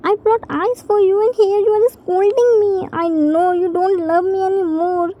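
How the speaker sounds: hammed-up crocodile tears; fake crying. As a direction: put on a pretend cry to guilt him. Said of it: "Started fake crying".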